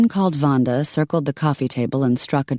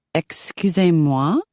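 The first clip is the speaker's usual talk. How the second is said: slow, offended Excusez-moi; a drawn-out offended question; indignant excuse me; 3 semitones higher, slower than usual. Acted. Shanna's indignant French.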